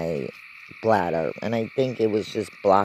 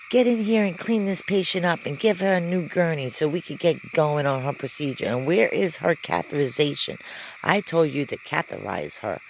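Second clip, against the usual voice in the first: higher, sharp scolding of the staff; angry doctor; 7 semitones higher than usual. Retold or imitated. Doctor scolding the nurse in front of the patient, raised and high. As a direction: bark orders at the careless nurse.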